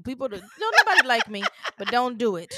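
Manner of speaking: laughing. Real, not acted. Laughing warning.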